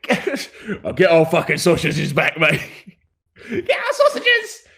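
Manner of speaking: high, shouting rat yelling after thieves; angry rat folk in pursuit. Acted. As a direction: rats chasing their stolen sausages. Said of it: "they go".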